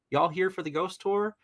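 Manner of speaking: imitating the tour guide's Southern accent lightly. Guide greeting the family at the asylum in a Southern accent. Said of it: "the Southern accent he had".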